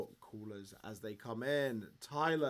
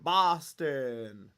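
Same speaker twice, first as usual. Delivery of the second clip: put-on Boston accent; 5 dB louder than usual. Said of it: "that was a terrible Boston".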